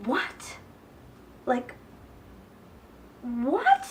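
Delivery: whispered what in disbelief; stunned whisper. Retold or imitated. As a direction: breathe it out, shocked. Stunned at the setup.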